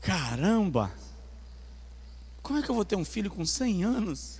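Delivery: play-acted, stunned, amazed, disbelieving exclamation. Retelling how Abraham laughed, acting amazed disbelief. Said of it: "Abraão ri de surpresa".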